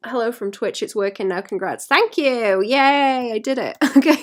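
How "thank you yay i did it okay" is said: louder, bright laughing thanks; relieved cheer. Real, not acted. Thanking chat after the stream finally works, loud and relieved. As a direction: celebrate the fix.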